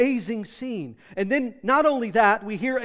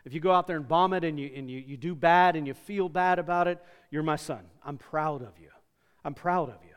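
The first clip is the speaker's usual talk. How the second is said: tender fatherly reassurance; 4 semitones lower than usual. Retold or imitated. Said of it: "remind him of who he is".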